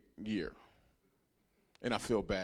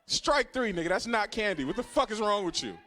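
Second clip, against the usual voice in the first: mock angry kid; 7 semitones higher than usual. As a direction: call him out like a furious little kid. Kid confronting classmate over peppermints.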